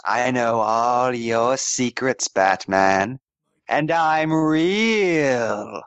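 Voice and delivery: slow, eerie drawn-out words; mock-ominous taunt. Someone taunts Batman about his secrets, mock-ominous. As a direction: stretch the last word into a long wavering note.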